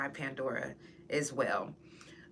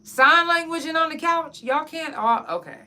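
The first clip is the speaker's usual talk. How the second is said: worried rant; 3 semitones higher, 4 dB louder than usual. Retold or imitated. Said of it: "I was just like".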